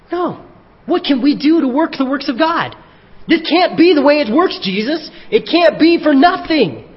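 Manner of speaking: hammed-up objectors who can't believe it's free; mock protesting crowd. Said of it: "And they say".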